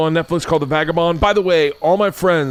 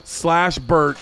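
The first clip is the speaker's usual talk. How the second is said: slow ad read; 5 semitones higher, much slower than usual. Shown as a demonstration. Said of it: "I'm not reading this".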